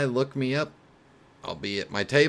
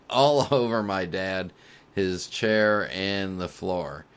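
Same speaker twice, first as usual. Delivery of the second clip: laughing through the words; real laughter spilling into the reading; trying to read on while laughing; 4 dB louder, slower than usual. Real, not acted. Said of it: "I'm sorry I'm laughing so much".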